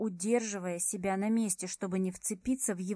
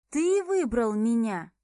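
indignant; 6 dB louder than usual. Acted. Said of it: "округлила глаза от возмущения".

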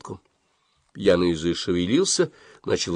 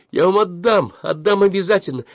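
lamenting; 11 semitones higher, 4 dB louder than usual. A narrator's reading. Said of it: "причитала она".

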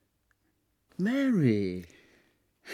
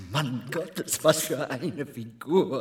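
admiring chuckle; slower than usual. Acted. Admiring Marilyn in bath.

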